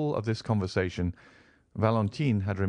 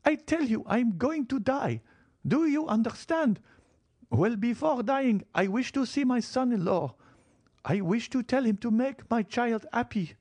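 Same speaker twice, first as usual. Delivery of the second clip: put-on a high, cold old grandmother's rebuke. Old marchioness scolding her son-in-law, high and stern. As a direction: make each word a reproach, pitched high. Marchioness insists she will die.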